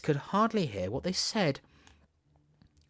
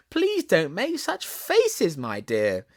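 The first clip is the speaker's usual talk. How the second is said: laughing plea; 4 semitones higher, 3 dB louder, slower than usual. Acted. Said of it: "she cried out".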